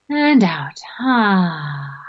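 breathy whispered out-breath; whispered exhale. Shown as a demonstration. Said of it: "big breath in and out".

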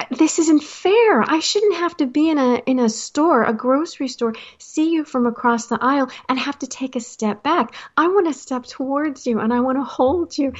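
pleading, slightly upset lament; plaintive protest. Retold or imitated. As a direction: protest to friends you miss, pitch lifted. Retold lament to friends, near tears.

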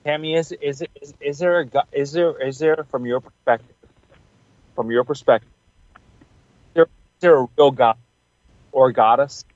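choppy call audio breaking up; words stuttering through a bad connection; frozen video call. Real, not acted. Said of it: "You're breaking up a bit".

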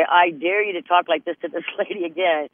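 playfully daring him to repeat it; half-joking tough-lady challenge; mock challenge. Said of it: "I would wanna say".

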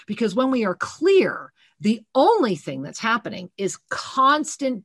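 fervent preaching. Acted. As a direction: drive it home to the listeners. Preaching on clarity.

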